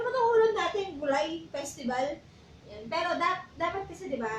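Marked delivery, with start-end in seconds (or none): 0.0-2.1 lightly acted outburst, settling quickly; mock angry complaint. Cook retelling a complaint about vegetable dishes, mock angry. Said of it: "galit na galit siya".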